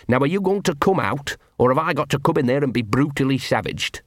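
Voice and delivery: gruff dog voice. Acted. Gaspode the dog talks.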